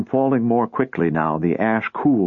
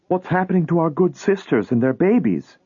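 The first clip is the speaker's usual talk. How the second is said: put-on higher, anxious young girl; tearful daughter; 8 semitones higher than usual. A narrator's reading. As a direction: ask in rising distress. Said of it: "began to cry".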